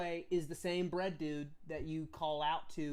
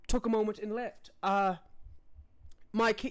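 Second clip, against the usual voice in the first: courtly noble; 4 dB louder than usual. Acted. Noble petitions the king, lightly voiced formal courtier. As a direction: play the polite court noble, earnest and eager.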